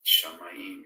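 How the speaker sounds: Shamayim said loud with a long ai; Hebrew word said loudly. Shown as a demonstration. Host repeating the Hebrew word for heavens. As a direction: call out Shamayim clearly. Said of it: "Just like heavens".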